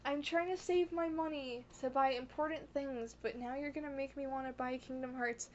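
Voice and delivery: exasperated fan wailing, fading to talk; mock inner scream. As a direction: start at a mock scream, then settle down. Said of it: "screaming on the inside".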